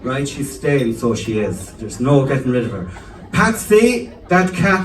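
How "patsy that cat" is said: high, calling out to dad; mum calling. Retold or imitated. Mum calls dad about the cat, high and doting. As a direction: call him from the next room. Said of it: "that's Patsy's my dad".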